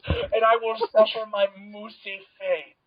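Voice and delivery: slow, drawn-out theatrical vow; mock-dramatic resignation. Podcast guest accepting the moose room, mock-dramatic resignation. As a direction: declare it slowly like a doomed hero.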